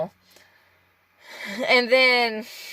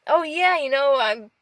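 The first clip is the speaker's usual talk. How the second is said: mildly acted, higher-pitched breezy front; putting on happiness; 4 semitones higher than usual. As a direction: brush off the struggle so nobody worries. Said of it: "you don't wanna burden people".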